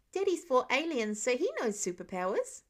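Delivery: put-on a kid bragging about his dad; proud little boy. Child boasting about dad.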